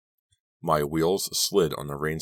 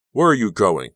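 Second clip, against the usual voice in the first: raised, high-pitched call; shouting after someone; 5 semitones higher, 10 dB louder than usual. A narrator's reading. Robbie shouting after the narrator as she leaves, shouted. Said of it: "Robbie shouted after me".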